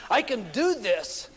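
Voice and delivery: a player's proud protest, slow and emphatic; eager protest. Retold or imitated. Player insists he can do it.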